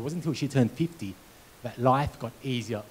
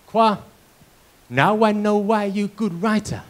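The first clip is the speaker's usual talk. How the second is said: higher, slower, imitating Mum's broken English; proud Mum; 7 semitones higher, 5 dB louder, slower than usual. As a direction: play his mum beaming with pride, slowly. Son voices Mum's proud reply.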